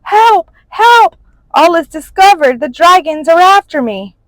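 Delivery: high, loud frantic yelling; panicked cries for help. A narrator's reading. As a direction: robber screaming as he runs. Robber fleeing in terror.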